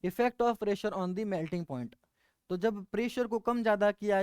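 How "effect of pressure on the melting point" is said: very slow, word by word for note-taking; slow dictation. Shown as a demonstration. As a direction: dictate "effect of pressure on the melting point" slowly so students can write. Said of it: "हमें पढ़ना क्या है वो दोबारा देखो". (बहुत धीमे, लिखवाते हुए)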